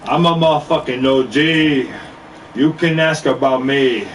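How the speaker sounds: slow chanted hook in a Jamaican accent. Shown as a demonstration. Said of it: "I wanna sing in a Jamaican accent".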